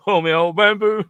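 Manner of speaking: high hammed-up Cockney singalong; mock Cockney. Answering the Dick Van Dyke jibe in hammed-up Cockney. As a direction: belt it like a music-hall Cockney. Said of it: "Dick Van Dyke coming out again".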